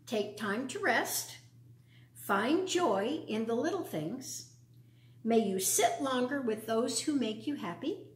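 put-on gentle, measured poem read to children. Reads a poem aloud.

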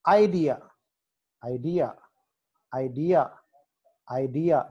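ఐడియా with the stress on "dee"; teacher's ఐడియా, weight in the middle. Shown as a demonstration. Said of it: "డి దగ్గర వస్తుంది".

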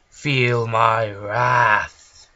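slow, loud villain line; villain threat. Pretend. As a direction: drag out every word menacingly. Villain casting spell again.

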